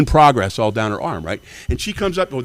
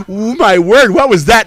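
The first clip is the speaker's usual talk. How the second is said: shocked gasp; 10 semitones higher, 6 dB louder, slower than usual. Retold or imitated. Bystander's shocked quote.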